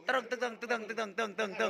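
softly sounded drum strokes in steady rhythm; vocal drum beat. Shown as a demonstration. Leader sounding the double stroke for the drummer, soft vocal drumming. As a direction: tap out the beat with your mouth. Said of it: "ดับเบิลสโตรก สามพยางค์ จัดไป".

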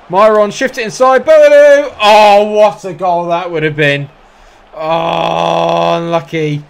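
high, loud shout then groan; roaring at a chance that just misses; excited near miss. Real, not acted. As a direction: scream the name, then deflate.

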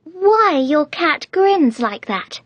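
put-on very high, slow little-girl voice; a little timid. A narrator's reading. Alice asks the Duchess about her cat, timid. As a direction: venture the question politely, high and slow. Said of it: "a little timidly".

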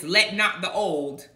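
slow, measured scriptural pronouncement; a hint of formal King James voice; King James style. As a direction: quote old scripture slowly. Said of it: "I don't speak like this".

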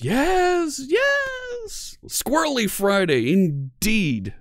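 very high squeaky chipmunk shout; squirrel voice. Acted. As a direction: cheer like an excited cartoon squirrel. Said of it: "How can I stay serious with that voice?".

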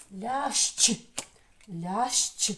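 Лящ with щ sounded fully as шч; double final sound. Shown as a demonstration. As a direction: say «Лящ» loudly, lingering on the ending. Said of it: "наш звук подвійний". («Лящ» з чітким подвійним «шч»)

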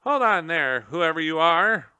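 high, loud squeaky call; a gerbil calling down to Tum Tum in a squeak. Acted. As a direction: squeak it down from the cage. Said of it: "one of them squeaked".

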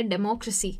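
"डेमोक्रेसी" with MO brought out; deMOcracy, third-last syllable stressed. Shown as a demonstration. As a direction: lean on MO in "डेमोक्रेसी". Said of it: "मो जो है उसके ऊपर".

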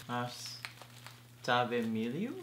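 "Ajtave", pause, then "Miliu" rising as a question; unsure, broken-up "Ajtave Miliu?"; halting reading attempt. Shown as a demonstration. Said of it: "can't even read my own language".

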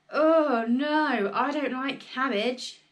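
put-on a loud horrified boy's cry; loud refusal. A narrator's reading. George refuses cabbage to Grandma, loud cry. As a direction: shout no in disgust.

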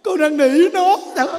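high, loud comic wail of a dumped husband; hammed-up tearful whine; mock crying. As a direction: imitate a man blubbering his complaint. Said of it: "tự nhiên khóc kỳ cục ấy".

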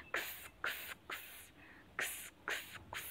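X as a voiceless "ks" sound; phonic sound. Shown as a demonstration. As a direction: say X as a whispered "ks", not the letter name. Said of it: "we will pronounce it with phonic sound".

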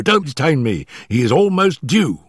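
high, hurried, stammering nervous man; gasping, out of breath. Acted. Nervous manager warning Holmes before his employer arrives, gasping and hurried. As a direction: blurt it out in short frightened bursts. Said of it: "our visitor gasped".

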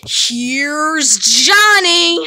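slow menacing. Acted. Famous Jack line.

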